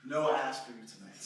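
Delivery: loud, slow mock dismissal; angry rejection. Woman rejects man's wrong cooking answer, loud mock-angry dismissal. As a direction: throw him out, drawing out each phrase.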